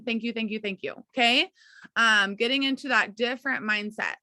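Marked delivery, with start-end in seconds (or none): 0.0-0.9 grateful, softening. Shown as a demonstration. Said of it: "we're saying".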